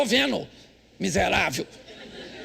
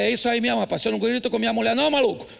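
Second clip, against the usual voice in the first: retold loud scolding; faster than usual. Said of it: "Falei alto que é pra ela escutar".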